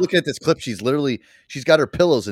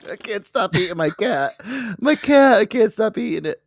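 high-pitched, hammed-up confession; high parody of a helpless addict; mock desperate addict; 10 semitones higher, 3 dB louder than usual. Mimics the cat-eating addict.

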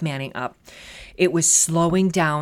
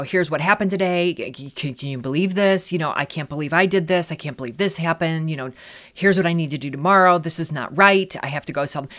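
rushing chatter. Retold or imitated. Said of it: "I'm going fast".

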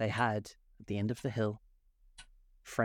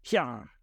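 short, raised exclamation; a sudden little interjected cry; exclaimed cry; 3 semitones higher, 4 dB louder than usual. A narrator's reading. Griffin breaking a very long silence, exclaimed cry. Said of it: "an occasional exclamation".

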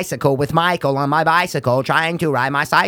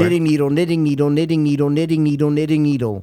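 tongue twister attempt. Shown as a demonstration. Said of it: "Ooh, I kinda did it".

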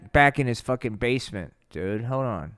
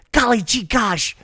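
high golly gee gosh; 7 semitones higher, 3 dB louder than usual. Acted. Slider exclaiming.

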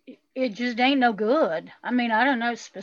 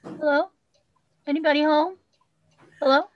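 calling down a hallway; 3 semitones higher than usual. Acted. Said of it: "you have to hear this".

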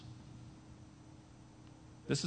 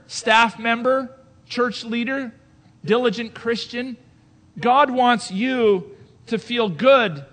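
mock message preached back; 4 semitones higher, 8 dB louder, slower than usual. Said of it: "messages that have said things to us like".

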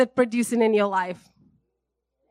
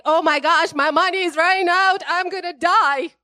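higher, louder hammed-up panic; a hammed-up panicked wail about money; mock panic; 5 semitones higher, 4 dB louder than usual. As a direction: play the spiraling worrier, half joking. Panicked inner thought acted out.

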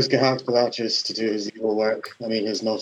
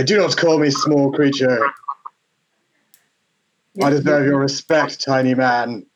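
magically amplified voice; 3 semitones higher, 4 dB louder than usual. Acted. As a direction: boom it out like a tiny tyrant. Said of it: "to boom my voice up to three times as loud".

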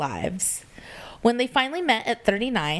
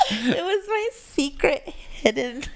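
too calm creepy doll; 8 semitones higher than usual. Pretend. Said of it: "You sound like a killer doll".

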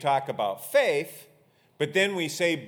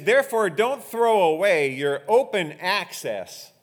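raised, emphatic pulpit reading; scripture reading; 5 semitones higher, 7 dB louder than usual. Real, not acted. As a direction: proclaim the verse loudly to the congregation. Reads scripture to congregation.

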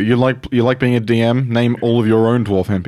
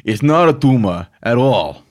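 Arnold Schwarzenegger impression; 3 dB louder than usual. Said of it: "That's what he sounds like".

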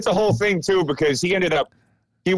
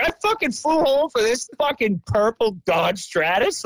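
fuming; 7 semitones higher than usual. Retold or imitated. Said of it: "foaming at the mouth".

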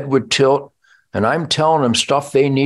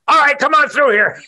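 agent giving in; 10 semitones higher than usual. Retold or imitated. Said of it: "got on the radio and went".

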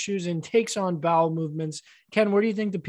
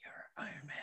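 whispering; 24 dB quieter, faster than usual. Pretend. Whispered quote.

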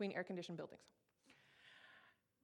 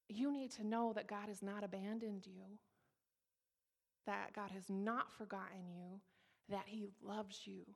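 earnest pastor. Retold or imitated. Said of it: "he just drills me with his eyes".

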